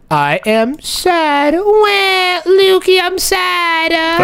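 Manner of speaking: high, whiny fake wail; mock crying. Player as Sadness whining to Lukey, mock crying. Plays Sadness morph, wailing.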